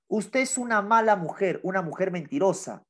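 lightly acted accusation; mild mock yell. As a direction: read it like a half-hearted shout. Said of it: "gritaba la".

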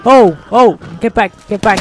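loud sudden warning; urgent alarm. Real, not acted. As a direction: snap it out in alarm. Sudden danger in firefight.

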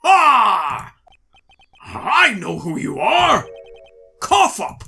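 high startled yelling; shocked shout. Acted. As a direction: cry out in shocked recognition. Judge recognizes witness, shouting.

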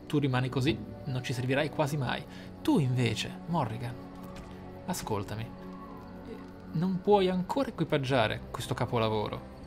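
ordinary talk

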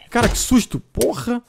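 high, loud startled outburst; real shock after the boar hits him; real fright. Real, not acted. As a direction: yelp it out, caught off guard.

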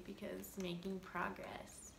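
soft unvoiced aside; hushed vlog aside; whisper. Real, not acted. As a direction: whisper it to the camera.

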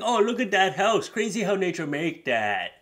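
mock naive wonder; awed dimwit. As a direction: marvel at everything like a fool. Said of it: "He's like".

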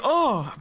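brief light moan, own take; short mock moan. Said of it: "I went".

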